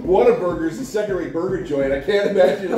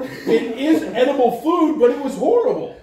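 laughing; 9 semitones higher, 3 dB louder than usual. Real, not acted. Laughing protest.

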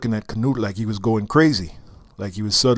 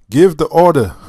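higher and louder eager call; crying out; 6 semitones higher, 7 dB louder than usual. Acted. Entourage eagerly cries out to King Canute. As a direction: urge the king on, loudly. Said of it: "cried his entourage".

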